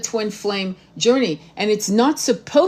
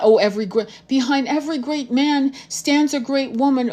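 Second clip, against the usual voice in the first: raised pitch, mock recital; mocking saying; 5 semitones higher than usual. Woman quoting the power-couple cliché she rejects, mocking. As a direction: parrot a tired saying in a higher voice.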